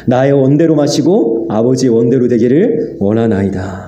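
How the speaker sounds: slow, reverent prayer; solemn prayer. Retold or imitated. Jesus yielding to the Father, slow and reverent. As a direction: pray it slowly, surrendering.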